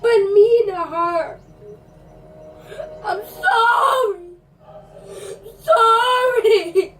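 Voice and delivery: hammed-up tearful yelling; theatrical weepy rant; crying shout. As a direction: sob it out at him, over the top.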